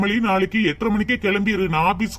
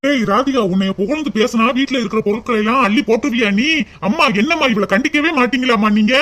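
louder telling-off; angry scolding; 2 semitones higher, 3 dB louder than usual. Acted. Brother scolds his sister for giving things away, angry. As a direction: scold her sharply.

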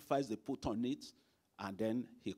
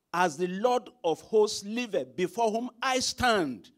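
slow scripture reading; 9 semitones higher, 8 dB louder than usual. Acted. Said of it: "Here again it says".

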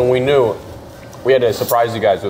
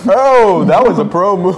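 white person voice; 8 semitones higher, 6 dB louder than usual. Retold or imitated. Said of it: "White people at a restaurant".

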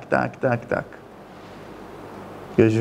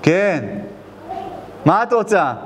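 rude angry answer. Retold or imitated. Son snapping at his mother on the phone, angry. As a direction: bark at her like she's wasting your time. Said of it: "בואו תקשיבו איך הוא ענה".

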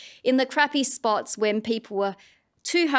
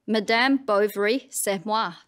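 put-on French said in a broad Australian accent. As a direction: say the French like an Aussie, no attempt at French vowels. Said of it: "Sorry about my Australian accent".

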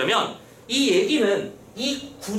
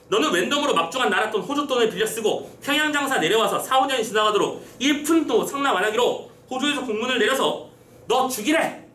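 mildly menacing, higher-pitched reading of charges; threatening official; 4 semitones higher than usual. Acted. Disguised official threatens Chunpung at the rack, mock threatening. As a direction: lay out the threat, building to the last word. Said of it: "지금 협박하고 있는 겁니다".

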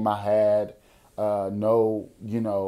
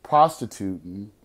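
somber; 3 semitones lower, slower than usual. Real, not acted. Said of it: "I was really scared".

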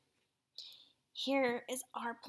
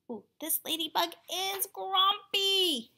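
slow, high, loud mock amazement; exaggerated storytime commentary; dramatic aside; 8 semitones higher, 6 dB louder than usual. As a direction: draw it out for young listeners. Teacher's dramatic aside to children.

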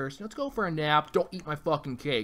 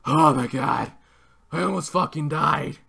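mocking whiny quote; 9 dB louder than usual. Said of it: "he's like".

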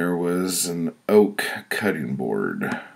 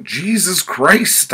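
loud, high, drawn-out yell; agonized high exclamation, stretched slow; yelled in pain; 8 dB louder, slower than usual. Acted. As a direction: yell it out as the blade lands. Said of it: "I yelled".

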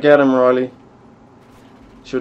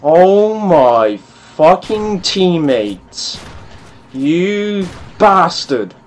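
mad; 3 semitones higher, much slower than usual. Real, not acted. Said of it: "I'm so fucking mad right now".

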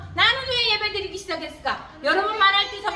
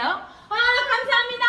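raised, heartfelt thanks; thankful; 5 semitones higher, 3 dB louder than usual. Acted. Believer thanking Jesus for saving them, raised grateful cry. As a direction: call out gratitude, pitching it up. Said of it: "감사하는 시간".

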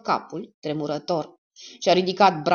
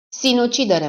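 insistent; 7 semitones higher, 5 dB louder than usual. Acted. Killer insists it was suicide.

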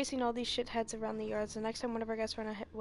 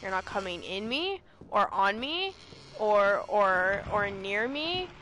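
loud, laughing protests; laughing refusal; 8 dB louder, slower than usual. Real, not acted.

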